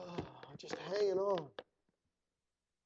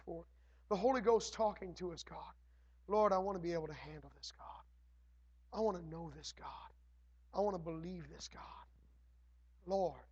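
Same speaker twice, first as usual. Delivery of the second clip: earnest prayer. Acted. Leads prayer.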